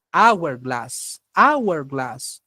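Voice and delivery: "hourglass" with the H left silent. Shown as a demonstration. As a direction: start "Hourglass" straight on the A vowel. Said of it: "La H es muda". ("hourglass" con la H muda)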